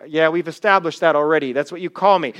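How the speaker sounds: low, dry, unimpressed Peter; sarcastic, mild mock boredom; deadpan sarcastic reply. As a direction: shrug it off like it's obvious. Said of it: "He's like".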